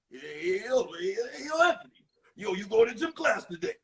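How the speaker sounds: lightly voiced Rocky Balboa mumble; a hint of a Rocky impression, easy and street. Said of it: "he talked like Rocky".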